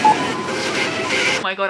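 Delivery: very high, loud excited shriek; screaming. Real, not acted. Vlogger reacts to a surprise parcel, screaming. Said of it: "I'm literally screaming".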